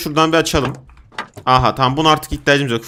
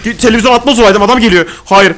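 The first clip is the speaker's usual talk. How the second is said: loud, high alarm; frantic holler under attack; panicked yell; 4 semitones higher, 6 dB louder than usual. Real, not acted. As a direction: shout as if being charged. Enemy charging in game.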